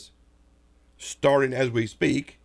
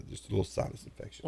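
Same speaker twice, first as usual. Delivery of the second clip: hoarse, nearly voiceless; hoarse whisper; 12 dB quieter than usual. Real, not acted. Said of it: "I'm still a little hoarse".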